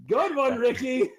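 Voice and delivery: high, forced chuckle; laughing it off. Acted. Guard laughs off the screams to the party. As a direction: fake a laugh.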